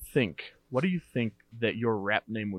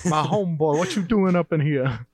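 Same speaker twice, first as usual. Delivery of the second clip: mock homeboy greeting; 5 semitones higher, 4 dB louder than usual. Rapper role play.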